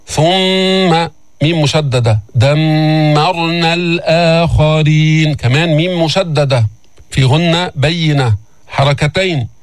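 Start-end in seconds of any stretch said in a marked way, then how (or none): 2.3-5.3 very slow chanted recitation; Quran recitation. Shown as a demonstration. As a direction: hold the doubled miim. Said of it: "teacher recites verse".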